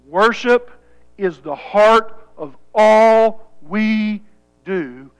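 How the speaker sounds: slow, deliberate repetition; emphatic preaching. Real, not acted. Preacher repeats the takeaway for his church, emphatic preaching. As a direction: spell out the point word by word.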